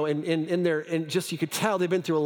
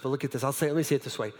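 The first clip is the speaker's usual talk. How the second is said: ordinary delivery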